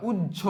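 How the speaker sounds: উজ্জ as "uj-jho"; jjh sound. Shown as a demonstration. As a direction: say উজ্জ with j running into aspirated jh, ending in o. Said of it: "জ ঝ ওকার হয়".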